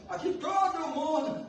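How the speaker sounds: lightly voiced cynical coworker, high and slow; a hint of a jaded complainer; half-hearted mock of office gossip. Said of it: "já viu essa expressão?".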